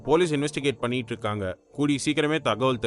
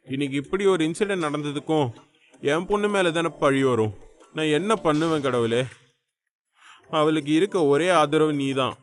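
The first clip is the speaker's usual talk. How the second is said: anguished plea to God; tearful lament. Acted. Father pleading to God for his injured daughter, tearful lament. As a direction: lament as if close to weeping. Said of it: "Rajendran அழுது புலம்புவதை".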